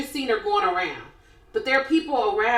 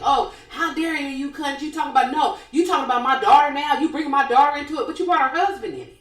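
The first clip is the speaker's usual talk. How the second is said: retold anger; 3 semitones higher, faster than usual. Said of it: "She's calling her cunt".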